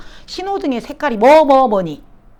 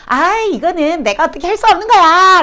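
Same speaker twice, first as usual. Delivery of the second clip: higher, louder mock protest; rationalizing; 5 semitones higher, 4 dB louder than usual. Teacher mimicking a student who rationalizes, mock protest. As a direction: act out someone making an excuse loudly. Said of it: "라고 합리화한다".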